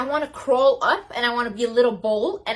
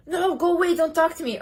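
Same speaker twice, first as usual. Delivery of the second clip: dismissive brush-off; 7 semitones higher than usual. Pretend. Imagined stranger rejecting her.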